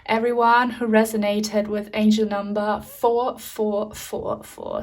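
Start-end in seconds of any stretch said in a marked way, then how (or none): 3.9-4.8 whispered echo. Shown as a demonstration. Reader echoing angel number to viewers, whispered. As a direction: whisper the repeat, voiceless and low.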